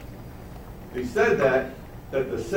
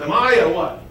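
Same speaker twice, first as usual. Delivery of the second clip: much higher and louder on "Jew"; scornful; 8 semitones higher, 6 dB louder than usual. Acted. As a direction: spit out the word Jew in disgust. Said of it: "See how he says".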